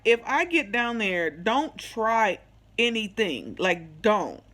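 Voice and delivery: slow, deliberate warning; stern warning. Retold or imitated. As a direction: lay down a firm condition, spacing out the words. Warns him before lying down.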